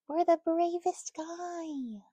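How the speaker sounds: slow, high whisper; whispered praise. Real, not acted. Mother whispering praise to her brave baby. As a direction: breathe the praise out slowly.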